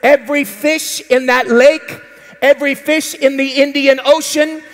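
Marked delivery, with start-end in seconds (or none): 2.4-4.6 rising preacher crescendo; preaching at full force. Real, not acted. Preacher building excitement to the congregation.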